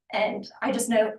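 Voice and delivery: slight tremble in the voice; shaky voice. Real, not acted. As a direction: voice shaking with nerves. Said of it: "my voice is shaking".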